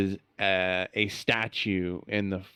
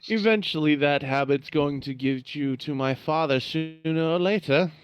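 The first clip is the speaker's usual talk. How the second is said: sinister villain voice; 7 semitones higher, faster than usual. Acted. Aasimar villain answers goblin.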